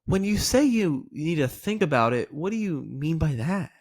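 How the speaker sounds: gently probe, genuinely wanting to know; inquisitive, rising at the end; curious. Shown as a demonstration. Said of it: "that tonality is very important".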